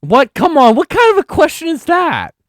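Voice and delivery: high, loud indignant protest; outraged disbelief. Real, not acted. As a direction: blurt out a shocked objection. Outraged at a trick trivia question.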